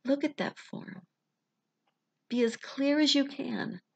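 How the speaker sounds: unhurried, soothing guidance; guided visualization. Acted. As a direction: ease them into calm, phrase by phrase.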